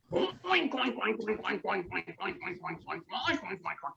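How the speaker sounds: squealy fading oinks; pig oinks. Acted. Pig running to dinner, fading oinks. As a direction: oink like an eager pig. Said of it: "said the pig".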